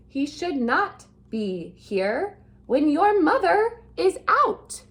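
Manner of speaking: a fish's mild scolding, pitch climbing at the end. Acted. Fish scolding the kids not to let the cat in, mild scolding. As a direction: fuss at the kids like a worried pet fish. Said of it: "the fish is scolding the kids".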